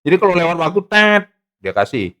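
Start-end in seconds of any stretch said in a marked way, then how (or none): 0.9-1.2 short held "tet" like a buzzer; imitated buzzer. Explaining how the moderator cuts off debaters, buzzer noise. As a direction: mimic a time-up buzzer.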